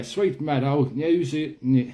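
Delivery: put-on Kiwi accent slipping into Cockney; drawn-out, botched Kiwi that lands in Cockney; accidental Cockney. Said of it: "that sounds like Eng-, uh, Cockney".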